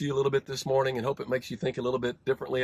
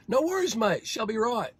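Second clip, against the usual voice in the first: Kiwi reply; 9 semitones higher than usual. Retold or imitated. Rancher mimics his Kiwi mate's high laid-back reply.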